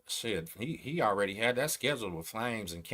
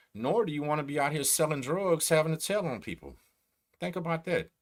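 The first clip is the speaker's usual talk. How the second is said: emphatic warning; 6 semitones higher, 4 dB louder than usual. Real, not acted. Warning viewers about snitching.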